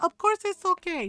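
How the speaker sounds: high, emphatic imitation of a hospitable mom; welcoming mom. Mom inviting daughter's friend to dinner, insistent welcome. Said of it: "Mom was like".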